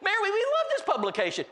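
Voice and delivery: very high, eager welcoming shout; hammed-up excited yelling; excited husband. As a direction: imitate a thrilled man hollering guests inside. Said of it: "Oh, this is exciting".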